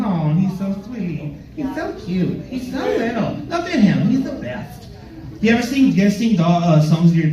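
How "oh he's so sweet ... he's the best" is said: soft, slow cooing at a dog. Real, not acted. Comic fawning over Nutter Butter, soft cooing.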